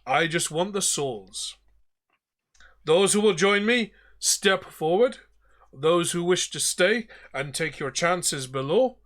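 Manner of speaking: commanding ghost captain calling for recruits; captain addressing the defeated crew; Davy Jones. Acted. GM as Davy Jones, corrected accent.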